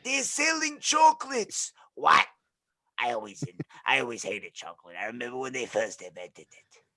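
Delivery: put-on old SpongeBob lady. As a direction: cackle it like a burned old lady. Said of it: "the one from SpongeBob".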